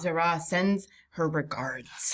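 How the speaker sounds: slow, deliberate relayed threat; quoted message. Retold or imitated. Player relaying the attackers' words to companions, slow quoted message. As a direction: draw the message out word by word. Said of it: "and they said".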